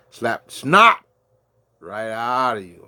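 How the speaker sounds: sudden high yelled threat; jokey shouted warning; mock threat. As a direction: bark it out like a joking bully. Mock threat about snot.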